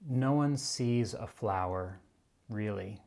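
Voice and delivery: slow, measured recital with long pauses; unhurried reading aloud, phrase by phrase; quote reading. Acted. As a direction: let each phrase of the quote settle before the next. Reads a favorite quote aloud.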